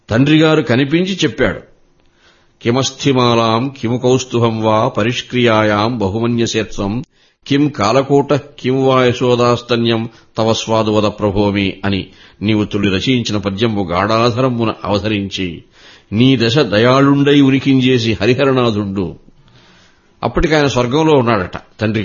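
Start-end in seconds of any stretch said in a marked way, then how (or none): 2.6-11.8 measured, even-toned Sanskrit verse recital; verse recitation. Acted. Poet reciting a remembered verse to an interviewer, measured recitation. 12.4-19.2 verse recitation. Acted. Recites a quoted Telugu verse.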